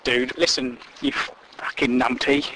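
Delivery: low, slow scolding, mildly put on; a hint of a stern woman telling him off; lightly voiced Deirdre scolding. Deirdre scolds the love rat, low and slow. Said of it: "Deirdre would have said".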